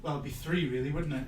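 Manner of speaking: muffled behind a hand; hand over mouth. Real, not acted. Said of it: "I'm gonna put my hand over my mouth".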